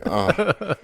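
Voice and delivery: high, loud mock-dismayed groan; comic high-pitched dismay; cringing "oh". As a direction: wince aloud at your blunder. Horror as daughter cries.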